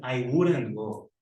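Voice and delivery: slow, clear correct form; careful slow model. Shown as a demonstration. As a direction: model the right sentence slowly.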